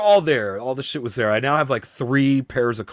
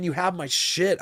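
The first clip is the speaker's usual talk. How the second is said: frustrated retort; 9 semitones higher than usual. Retold or imitated. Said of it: "almost wanna flip out on the guy".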